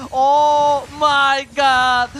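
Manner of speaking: drawn-out stunned gasp of words; surprised. Real, not acted. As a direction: stretch it out in disbelief. Caster reacts to double kill.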